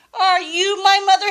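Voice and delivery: high, quick little bird question; baby bird voice. Acted. Grandma reading to James, the baby bird asking the kitten, high and quick. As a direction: ask it fast and high like a tiny chick. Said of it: "he said to the dog".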